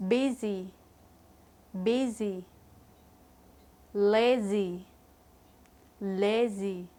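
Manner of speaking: each word said alone, clear, with long gaps; repeat-after-me drill. Shown as a demonstration. Teacher models each word for students to repeat, clear and paced. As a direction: model each word, then leave room for the class to echo it. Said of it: "please repeat after me".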